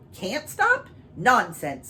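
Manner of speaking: high, loud furious king. Acted. King scoffing at the cow, furiously loud. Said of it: "said the king furiously".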